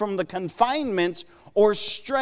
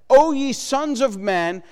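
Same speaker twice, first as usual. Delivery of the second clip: declaimed reading; 4 semitones higher, 3 dB louder than usual. Shown as a demonstration. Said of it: "Look at what he says".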